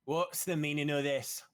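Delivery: loud, slow and piercing; commanding knight's call over a crowd. Acted. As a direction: cut through the crowd with authority. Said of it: "you hear a piercing voice".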